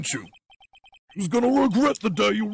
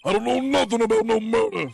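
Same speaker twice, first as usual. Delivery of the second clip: tough gangster voice. Acted. Gangster voice quote.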